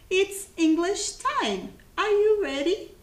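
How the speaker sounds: high, bright call to the class; rally the pupils; cheerful classroom announcer; excited announcement. Real, not acted. Teacher announcing English time.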